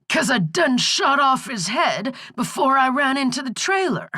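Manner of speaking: put-on high, folksy old hag; croaking old crone. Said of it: "the croaking was starting to hurt her throat".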